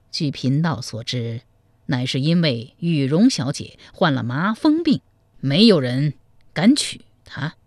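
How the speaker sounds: a sly monk confiding gossip; old monk. Acted. Monk tells the groom about the bride, low and measured.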